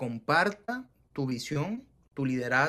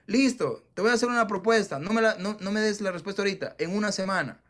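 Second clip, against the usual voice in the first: higher, louder, fast pitch; eager offer; 5 semitones higher, 3 dB louder than usual. Retold or imitated. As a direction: close the deal eagerly. Making a job offer.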